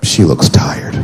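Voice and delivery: whispered, hushed realisation; whispered thought. Acted. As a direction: breathe it to yourself.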